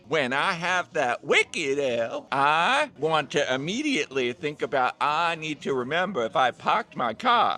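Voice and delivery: put-on joking mix of Southern and Boston accents; lightly voiced Southern-Boston accent; mock Southern-Boston accent. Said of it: "the weirdest Southern accent combined with a Boston accent".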